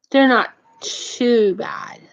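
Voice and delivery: slow, tearful catch in the voice; choked up. Real, not acted. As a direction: voice cracks with emotion while praising them. Choked up praising the food bank.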